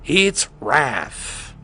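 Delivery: slow, drawn-out villain host voice, lightly put on; Joker voice. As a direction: announce like a sly Joker. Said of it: "Joker voice".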